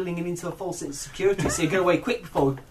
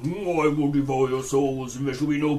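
low, rumbling demon voice; deep demonic voice; 6 semitones lower than usual. Retold or imitated. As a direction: growl it out like a demon from below. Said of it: "He talked in a deep demonic voice".

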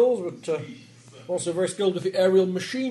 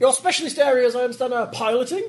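attempted American accent; 6 semitones higher than usual. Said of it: "I've turned English again".

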